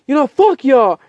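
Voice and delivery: loud, high dismissive curse; acted angry outburst. Smart cursing teammates before punching a frame, acted fury. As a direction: curse them off with mock fury.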